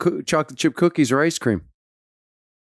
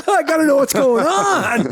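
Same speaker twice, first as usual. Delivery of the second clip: laughing while talking; 10 semitones higher than usual. Real, not acted. Still laughing, high.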